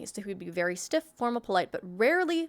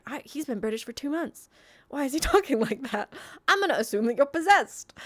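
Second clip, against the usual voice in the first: puzzled onlooker, rising higher; mock bafflement; 4 semitones higher than usual. Player reacting to a suddenly dropped British accent, mock bafflement.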